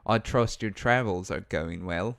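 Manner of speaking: lightly put-on Australian accent. Co-streamer retrying the villager's greeting after critique, Australian accent. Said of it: "hit him with your Australian accent".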